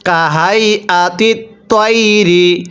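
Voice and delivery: তৈরি with a light dental ত, not a hard ট; তৈরি with soft dental ত. Shown as a demonstration. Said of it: "তকে তয়ের মতো করে উচ্চারণ করতে হবে".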